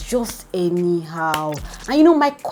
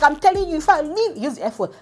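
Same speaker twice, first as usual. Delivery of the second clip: high, heated warning; angry threat; 9 semitones higher than usual. Retold or imitated. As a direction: threaten to walk out. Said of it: "Pere's like".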